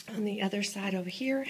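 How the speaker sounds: breathless after climbing stairs; winded, catching your breath. Real, not acted. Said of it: "running out of breath".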